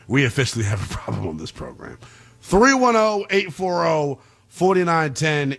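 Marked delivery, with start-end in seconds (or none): 2.4-5.6 number callout. Real, not acted. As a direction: sell the call-in line like a radio host. Host reads the phone number.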